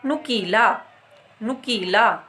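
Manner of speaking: नुकीला with a short, clipped उ. Shown as a demonstration. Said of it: "तो हम इसको बोलेंगे".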